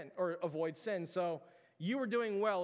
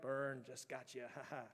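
mock gloating; 5 semitones lower, 9 dB quieter than usual. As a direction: taunt him with a quiet smug chuckle. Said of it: "you can kinda hear the implication of".

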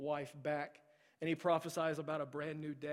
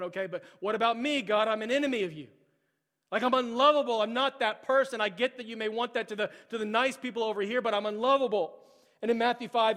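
loud, higher impassioned preaching; preaching at full force; 5 semitones higher, 8 dB louder than usual. Acted. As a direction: build the sermon to a ringing peak. Loud preaching voicing sinner and Jesus.

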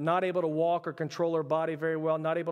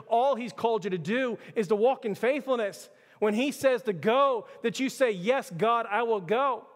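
raised, insistent preacher delivery; emphatic preaching; 4 semitones higher than usual. Acted. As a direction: drive each point home to the congregation. Preaches the point emphatically to the church.

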